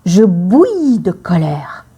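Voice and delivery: seething whisper; whispered anger. Shown as a demonstration. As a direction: hiss it under your breath, boiling inside. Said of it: "on pourrait dire".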